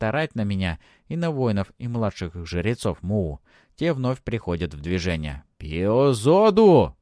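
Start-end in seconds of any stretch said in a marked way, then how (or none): 5.6-7.0 slow, loud tribal threat; furious cry. A narrator's reading. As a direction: roar it again in rage. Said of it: "повторяет уже сказанное".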